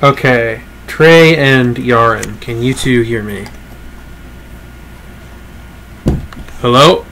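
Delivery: clipping, distorted mic sound; blown-out mic. Real, not acted. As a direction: voice overdriven through a clipping mic. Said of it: "I bet I know why I sound blown out".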